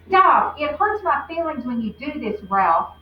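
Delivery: loud, high plea to stop; upset cry. Acted. Lucy pleading with the bully to stop, upset. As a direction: cry out for him to stop, hurt. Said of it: "Lucy said".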